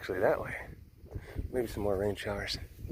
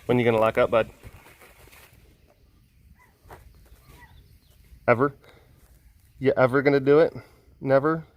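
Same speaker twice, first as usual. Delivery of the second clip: funny voice; 2 semitones higher, 11 dB louder, faster than usual. Real, not acted. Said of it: "you sound so funny".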